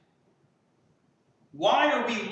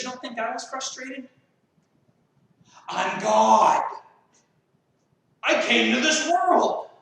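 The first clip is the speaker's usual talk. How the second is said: a hint of a commanding Jesus, louder on I'm God; 3 semitones higher, 5 dB louder than usual. Preacher voicing Jesus to frustrated believers, mild commanding swell. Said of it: "You know what Jesus says?".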